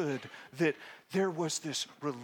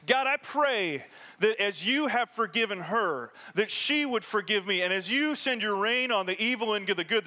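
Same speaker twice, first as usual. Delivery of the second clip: projecting voice; 4 semitones higher than usual. Retold or imitated. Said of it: "with a projecting voice".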